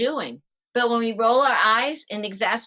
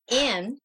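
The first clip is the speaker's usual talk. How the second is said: demo sigh of relief; 2 semitones higher than usual. Shown as a demonstration. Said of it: "like a sigh of relief".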